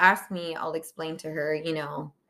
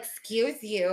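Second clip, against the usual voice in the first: imitating a kid's sassy correction; lightly mocking, pointed delivery; with attitude; 2 semitones higher, slower than usual. Kids racing to say it first, with attitude. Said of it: "Like, with attitude".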